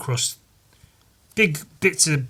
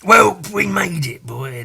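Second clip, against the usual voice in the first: put-on old man voice; 6 semitones higher, 5 dB louder, slower than usual. Voicing old man again.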